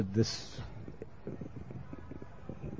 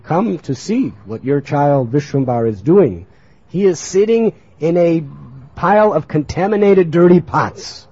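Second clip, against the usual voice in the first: emphatic tattling, getting louder; urgent reporting; 4 dB louder than usual. Acted. Boys report the child's mischief to his mother, urgent reporting. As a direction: report it with mounting alarm.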